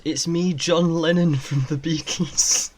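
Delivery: lightly put-on Scouse rock-star voice; mock impression of a singer. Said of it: "definitely John Lennon's voice".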